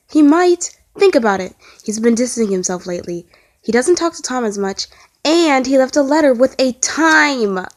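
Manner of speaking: anxious rushed worry; frantic babbling. Acted. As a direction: babble out the fears. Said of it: "Ed babbled".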